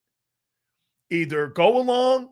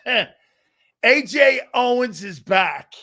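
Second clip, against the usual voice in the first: drawn out through a laugh, louder; slow laughing repeat; 3 semitones higher, 5 dB louder, much slower than usual. Real, not acted. Host repeating the big news with a laugh. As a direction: savour it slowly while laughing.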